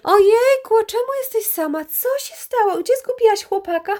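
high, mock-sweet gushing voice of nosy party friends. Friends at the party pestering her about the missing boyfriend, high mock-sweet voice. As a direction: coo it like a pitying friend, ending in a laugh.

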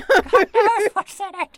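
very high squeaky ferret voice. Pretend. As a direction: squeak back like a ferret student. Ferret voice role play.

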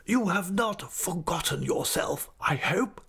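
slow, menacing stage whisper; audible whisper. A narrator's reading. Headmaster warns the master with a slow, audible whisper. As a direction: whisper it slowly, every word carrying. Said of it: "his whisper was so audible".

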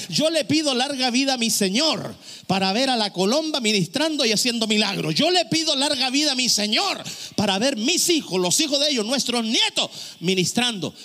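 lively, rousing sermon delivery; fervent preaching. Acted. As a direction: preach it as an impassioned declaration. Preaches a declaration of faith.

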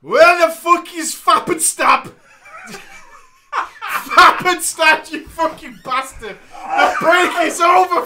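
big, hammed-up angry bellow in a mock Greek voice; loud booming Greek voice. Storyteller voicing a raging Greek raid member, booming bellow. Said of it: "A loud booming voice bellowed out".

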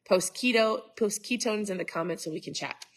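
blocked nose, slightly nasal; talking through a head cold; stuffed-up nose. Real, not acted. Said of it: "I sound super stuffed up".

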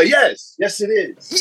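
high, delighted confirmation; excited yes. Real, not acted. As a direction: blurt it out thrilled.

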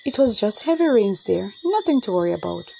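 calmly. Acted. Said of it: "her mother said calmly".

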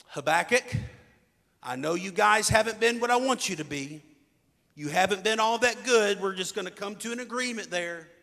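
voicing God. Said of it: "Here's what God says".

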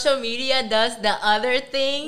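high and loud, all lit up; excited gush. Real, not acted. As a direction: gush about it like it made your day. Gushing about inspiring social media.

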